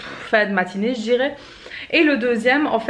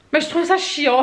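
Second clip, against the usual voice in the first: laughing; 5 semitones higher than usual. Real, not acted. Laughing at own dislike of wrapping.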